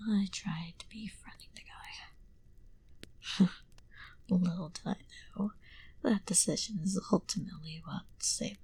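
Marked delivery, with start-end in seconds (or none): 3.5-4.2 small whispered laugh under the breath; quiet chuckle. Acted. Vampire amused by their own tale, quiet chuckle. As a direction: let out a hushed little chuckle.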